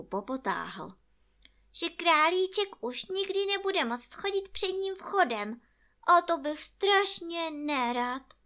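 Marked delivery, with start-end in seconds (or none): 1.7-8.3 high, loud bear voice; worried bear. Acted. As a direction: voice the bear's worry, pitched up. Narrator voices Pooh.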